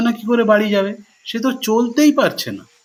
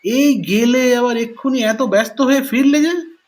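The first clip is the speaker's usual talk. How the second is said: surprised; 5 semitones higher than usual. Acted. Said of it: "আশ্চর্য হয়ে জিজ্ঞেস করলো".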